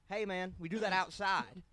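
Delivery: lightly voiced older coworker; coworker's voice. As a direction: imitate the guy from the belt. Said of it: "Why'd you use his voice to answer?".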